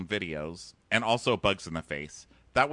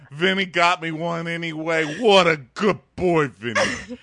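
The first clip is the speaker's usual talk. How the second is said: mock doting mom; 7 semitones higher, 7 dB louder than usual. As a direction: coo over him like a proud mother. Voicing the mom praising Vinny.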